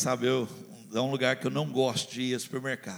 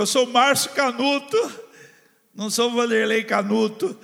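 louder, higher mock denial; joking denial; 7 semitones higher, 7 dB louder than usual. Pastor joking he almost denied who he was, loud. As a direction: pretend to be someone else, half laughing. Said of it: "Quase que eu falei".

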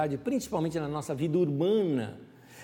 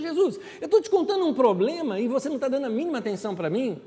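indignant protest; 5 semitones higher, faster than usual. Acted. Woman complaining to Jesus he ignores her, mock indignant. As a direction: protest half laughing.

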